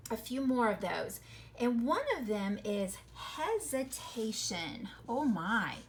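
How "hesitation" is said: "hesitation" slow, every syllable sounded; drawn-out syllables. Shown as a demonstration. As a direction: stretch out "hesitation" for listeners. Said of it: "listen to that word".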